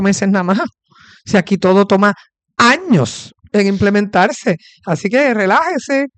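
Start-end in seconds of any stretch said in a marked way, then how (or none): 4.8-6.1 slow, lifted mock-soothing advice; ironic reassurance. Real, not acted. Radio host telling senator to wait for the company to leave, ironic. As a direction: draw it out with ironic calm. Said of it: "Esto es una ironía".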